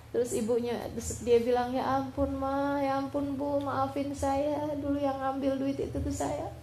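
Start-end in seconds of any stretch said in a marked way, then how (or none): 1.7-6.5 retold tearful confession. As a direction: confess gently like a son near tears. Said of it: "Terus akhirnya anaknya nangis".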